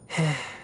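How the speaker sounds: short, resigned sigh; disappointed sigh. Acted. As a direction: let out a small sigh of disappointment. Let down by finding no spirit.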